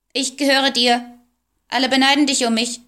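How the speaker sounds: high, loud squawking doll; squawky doll voice. A narrator's reading. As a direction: quack it like a talking doll. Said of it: "die etwas quäkend klang".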